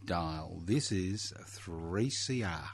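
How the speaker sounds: big on-air station ident; radio announcer. Real, not acted.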